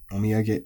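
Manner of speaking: "omiyage" kept level with no drop; flat pitch accent. Shown as a demonstration. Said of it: "which is flat".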